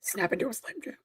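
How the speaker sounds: whispered monster voice. Acted. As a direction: hiss it like a creature lurking. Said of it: "monster voice come from me".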